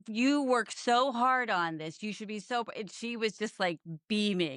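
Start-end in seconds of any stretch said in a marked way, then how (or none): 0.1-2.7 warm praise. Retold or imitated. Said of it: "they were just like".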